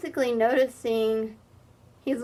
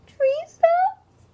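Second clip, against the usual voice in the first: crying squeal, much higher and louder; wailing cry; 5 dB louder than usual. Acted. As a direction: sob the words out in shock. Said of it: "wailed Fredgedy".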